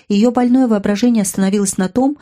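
usual speaking voice

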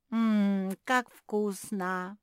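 slow, drawn-out yum; savoring. Acted. Kuki tasting the chocolate, slow savoring. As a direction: relish every word.

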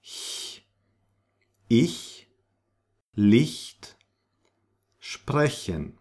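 ich, Licht, sprechen with airy hy sound; hissed palatal ch in ich and Licht; soft ch. Shown as a demonstration. Teacher models the other CH, as in huge. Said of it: "like in huge".

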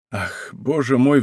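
a mild sigh of helplessness. Acted. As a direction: let it out on a weary sigh. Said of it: "вздохнул король".

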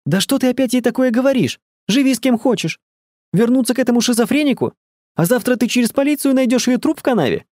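shrieking. A narrator's reading. Elsa screaming at Herbert and Angela on the phone. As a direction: shriek in panic and outrage. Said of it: "закричала Эльза".

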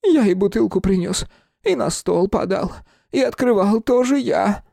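высокий медленный голос фамильяра; признавайся тонко и растерянно. Acted. (фамильяр признаётся, медленно и высоко)

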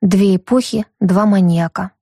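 ordinary talk

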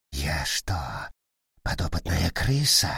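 low rasping monster growl; growling chained demon. Acted. Paralysed vampire speaks.

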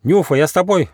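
high, loud eager cry; shout. A narrator's reading. Squirrel cub shouting to Nyufa while rushing after him. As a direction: call after him as you run. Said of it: "закричал Бельчонок".

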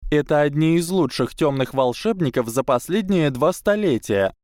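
high, eager schoolgirl; bright proud young witch; girl voice. A narrator's reading. Tracey explains eagerly.

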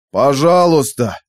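loud, stretched plea; drawn-out cry for mercy; desperate begging. A narrator's reading. Captive begs as told.

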